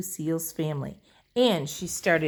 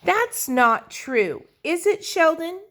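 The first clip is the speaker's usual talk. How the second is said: high, loud, slow, worried plea; anxious little girl; 13 semitones higher, 6 dB louder than usual. Acted. Lucille pleading with Sheldon, high and worried. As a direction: beg him to say it isn't so.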